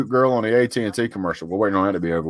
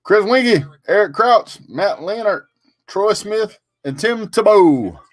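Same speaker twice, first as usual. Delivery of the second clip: excited; 12 semitones higher, slower than usual. Real, not acted. Excited roll call of names.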